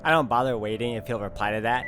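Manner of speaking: measured read-aloud of story text; even, composed first-person narration. A narrator's reading. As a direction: narrate it like an audiobook. Reads game's story text aloud.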